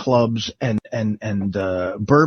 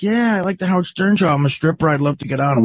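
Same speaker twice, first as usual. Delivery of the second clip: put-on higher-pitched eager young woman; stripper caller; 5 semitones higher, faster than usual. Stripper telling Levy she likes the show, in a high put-on voice. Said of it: "She's like".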